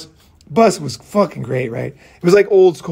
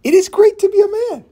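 much higher, louder cry of "great"; excited high shout; 4 dB louder than usual. Real, not acted. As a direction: belt it out like a triumphant cheer.

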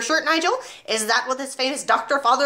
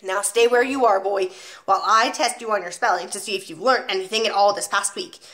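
1 commanding headmistress; 3 dB louder than usual. Acted. Trunchbull orders spelling test.

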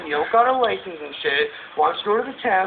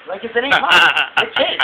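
laughing; 3 dB louder than usual. Real, not acted. Laughing about the baby.

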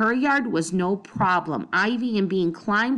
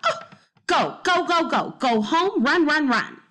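much higher, flustered and urgent; panicked shooing; 8 semitones higher than usual. Acted. Missus Trance frantically shooing the sick child home, panicked. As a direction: shoo them away in a fluster. Neighbour panics, shoos girls away.

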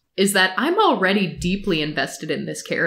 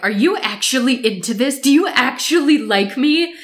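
confronting; 4 semitones higher than usual. Retold or imitated. Kitchen confrontation, retold.

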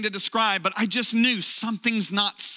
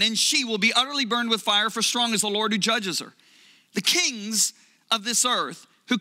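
solemn Bible reading; scripture reading. Acted. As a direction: read the verses with weight. Reads Revelation aloud to congregation.

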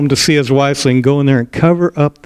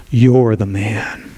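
put-on old prophet accusing; 3 semitones lower, much slower than usual. Prophet Nathan confronting King David, slow low accusation. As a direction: point the finger and say it slow. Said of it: "old crooked finger of an old prophet".

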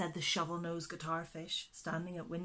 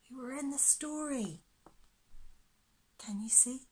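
fast hushed whisper; 6 semitones higher, 3 dB quieter than usual. Real, not acted. Reader telling children where the pictures are, whispered. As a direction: whisper a secret to the listeners.

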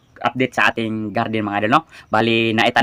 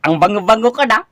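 higher, laughing through the brag; 7 semitones higher than usual. Real, not acted. Vlogger boasts of smelling good, laughing high. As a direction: giggle out the boast.

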